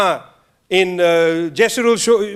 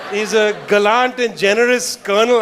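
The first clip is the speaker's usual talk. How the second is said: laughing while reading. Real, not acted. Reading a colonel's statue plaque.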